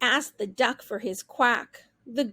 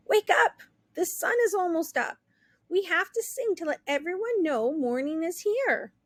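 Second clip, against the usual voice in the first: urgent rooster; 5 semitones higher than usual. Acted. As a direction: rouse her quickly. Rooster waking turkey.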